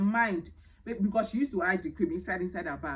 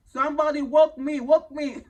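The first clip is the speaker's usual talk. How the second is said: loud, higher cry of disbelief; stunned disbelief; 7 semitones higher, 10 dB louder than usual. Retold or imitated. The wife, stunned by the maid, crying out loud and higher. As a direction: beg to be woken from this dream.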